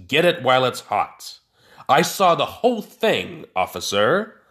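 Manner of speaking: newsboy calling. Acted. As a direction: hawk the headline like a newsboy. Harold plays newsboy.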